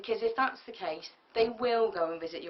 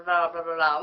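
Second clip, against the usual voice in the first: mocking blah; 4 semitones lower, 7 dB louder than usual. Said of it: "rather than saying".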